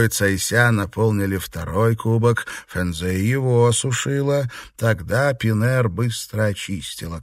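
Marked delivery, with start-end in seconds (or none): none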